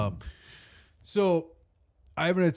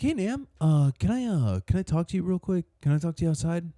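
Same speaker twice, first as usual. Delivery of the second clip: retold Italian friend; 5 semitones higher, 3 dB quieter than usual. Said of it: "he was like".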